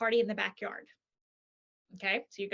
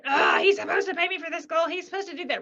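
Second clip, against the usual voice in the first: mild mock outrage; 6 semitones higher, 4 dB louder than usual. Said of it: "She's so mad".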